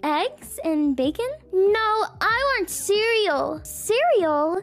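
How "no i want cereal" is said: put-on high, eager little boy. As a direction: play an excited young son. Son voiced asking for cereal.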